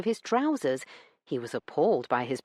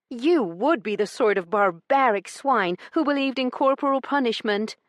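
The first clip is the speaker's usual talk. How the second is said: scornful lady; 8 semitones higher, 4 dB louder than usual. A narrator's reading. Heroine scorns him.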